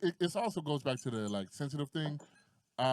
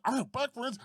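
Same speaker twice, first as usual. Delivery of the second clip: mocking white friend; 9 semitones higher than usual. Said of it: "I'd be like".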